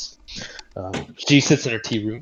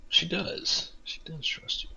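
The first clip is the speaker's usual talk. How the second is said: whispering; 7 semitones higher, 12 dB quieter than usual. Real, not acted. GM whispers an aside.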